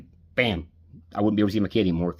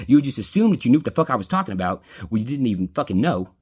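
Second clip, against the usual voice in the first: louder, heated complaint at the friend; angry rant; 4 dB louder than usual. Real, not acted. Ranting to his best friend Casey, angry and louder. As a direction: let the anger build as you accuse her. Venting anger at absent friend.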